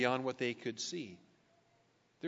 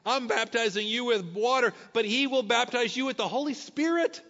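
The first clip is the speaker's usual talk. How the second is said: rising louder and higher into a proclamation; John proclaiming; 6 semitones higher, 5 dB louder than usual. Retold or imitated. Preacher voicing John the Baptist to the crowd, proclaiming loudly. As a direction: build it up like a prophet announcing the one to come. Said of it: "John says".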